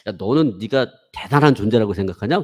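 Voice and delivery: a hint of a stern senior calling him out; senior's rebuke. Senior rebuking the proud seminarian, blunt. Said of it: "선배가 하는 얘기가 저한테 그렇게 묻더라고요".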